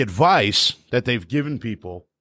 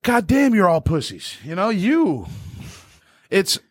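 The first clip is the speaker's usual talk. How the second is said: mock rant; 4 semitones higher than usual. Ranting at pop punk fans.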